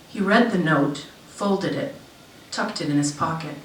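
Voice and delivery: measured literary reading with lifted phrase openings; story narration. A narrator's reading. Author reads short story to an audience, story narration. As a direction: read it aloud in deliberate, falling phrases.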